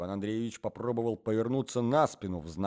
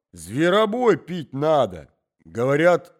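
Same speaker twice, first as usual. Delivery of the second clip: put-on high, slow forgetful old man; forgetful old husband explaining to wife, high and slow; old man's voice; 8 semitones higher, 14 dB louder, slower than usual. A narrator's reading. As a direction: ramble like a doddering grandfather.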